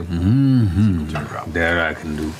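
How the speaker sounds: lightly voiced, low-pitched old tattooist; a hint of a low, satisfied craftsman; a turtle tattoo artist musing to himself, lightly voiced; Orlando's voice. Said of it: "Orlando goes like".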